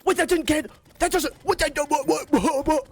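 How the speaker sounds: high, loud confused what; stunned disbelief. Real, not acted. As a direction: sputter in shock at the result. Event suddenly ended.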